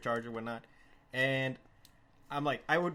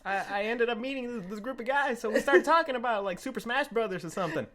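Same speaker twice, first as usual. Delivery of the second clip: put-on higher rambling drunk voice; lightly voiced drunk; 5 semitones higher than usual. Drunk Chuck explaining.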